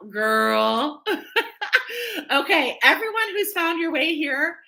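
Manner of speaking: high-pitched, breaking into laughter; laugh, then carry on high through it. Real, not acted. Host cracking up as she welcomes everyone who found their way, laughing.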